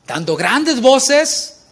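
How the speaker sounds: loud high drawn-out cry, acting the crowd; shouted slowly. Preacher acts the furious crowd, loud slow shout. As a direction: stretch each word out in a big shout.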